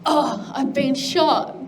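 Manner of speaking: slow, drawn-out mock lament; mock wounded. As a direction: play wounded, dragging the words out. Voices the cheese seeing its holes.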